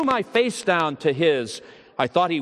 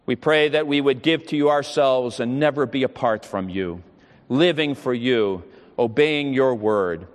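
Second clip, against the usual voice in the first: closing prayer. Acted. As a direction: lead the congregation in prayer.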